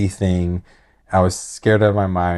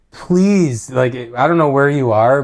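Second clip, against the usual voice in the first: earnest plea; 5 semitones higher, 4 dB louder than usual. Real, not acted. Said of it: "pleading with viewers".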